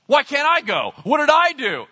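loud, high, wounded protest; hammed-up hurt complaint; taking it personally. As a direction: whine it indignantly at full voice. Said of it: "David gets all personal about it".

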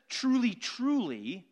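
"Truly, truly" drawn out slowly, each word weighted; slow emphasis. Shown as a demonstration. Preacher slowly stressing "Truly, truly" to the congregation. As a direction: lean on "Truly, truly" slowly to underline it. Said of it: "he's underscoring the truth of it".

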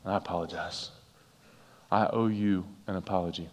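soft, quiet, sincere apology; a heartfelt quiet I'm sorry. Shown as a demonstration. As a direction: say it softly, meaning every word. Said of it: "look at someone sincerely and say".

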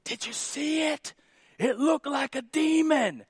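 high, breathless awestruck gasp; mock-terrified high voice; weird dude. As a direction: play the spooked youth-group kid seeing a demon in the smoke. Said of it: "weird dude that would always go".

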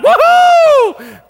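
very high, very loud whoop of joy; prisoners cheering. Acted. Freed prisoners whooping as their chains fall off, a very high loud whoop. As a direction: let out a wild freedom whoop. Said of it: "They're like".

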